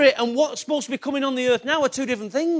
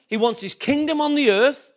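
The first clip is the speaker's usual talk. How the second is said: ordinary delivery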